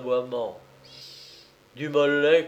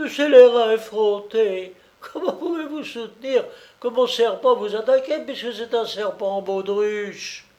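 higher, loud with laughter; triumphant scolding; 9 semitones higher, 5 dB louder than usual. A narrator's reading. Colombine exposing his lie.

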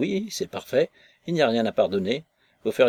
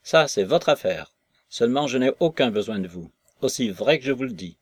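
bitter refusal; 4 dB louder than usual. Acted. Maslova refuses him, near tears.

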